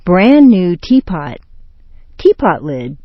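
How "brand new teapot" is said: "tea" carries stress, "pot" falls; compound intonation. Shown as a demonstration. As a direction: stress "tea" in "Brand new teapot". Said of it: "The main intonation patterns".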